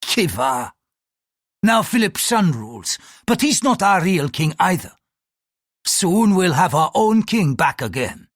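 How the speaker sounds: heated, high-pitched grievance; bitter indignation. Acted. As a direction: pour out a patriot's anger. Priest rages about conquered country.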